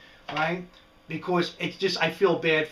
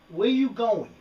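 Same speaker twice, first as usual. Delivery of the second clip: higher and louder, more insistent; louder call to lizard; 6 semitones higher, 4 dB louder, slower than usual. Real, not acted. Lizard still wandering, louder insistent call. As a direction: call him back a bit firmer.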